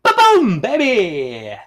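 very high, loud burst; hyped exclamation. Real, not acted. Vlogger switching topics with a hype shout. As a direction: punch it like a hype man. Vlogger's punchy segment transition.

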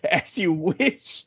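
slow, stretched-out mock call; drawn-out movie quote. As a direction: lightly imitate a long, trailing call. Retelling hero's call while tumbling downhill.

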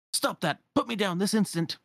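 high-pitched, indignant clock; Cogsworth. Acted. Clock protesting as his pendulum is played with, indignantly. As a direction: demand release, fussy and affronted.

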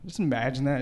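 ordinary talk, nothing marked

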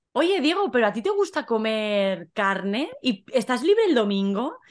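casually sounding Diego out, rising questions; acted friend's questions. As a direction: voice a friend fishing for information. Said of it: "Efra dice". (preguntas fingidas de amigo)

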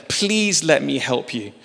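tender pleading as the Lord; a hint of a quiet gentle plea.

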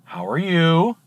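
low, hushed, wary answer; on edge. Acted. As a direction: answer warily, dropping pitch and volume. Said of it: "bartender's really on edge".

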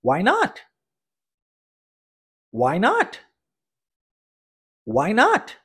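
"Why not?" with a clear rising question tune on "not". Shown as a demonstration. Teacher showing question intonation to students, rising end. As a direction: let "not" rise like a real question. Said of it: "Vamos repetir?".

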